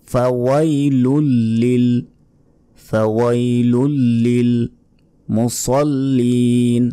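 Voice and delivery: ফাওয়াইলুল লিল মুসাল্লিন said slowly, the lam doubled; slow drill. Shown as a demonstration. Teacher drills the phrase slowly. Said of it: "এখানে সিনের উচ্চারণ হবে".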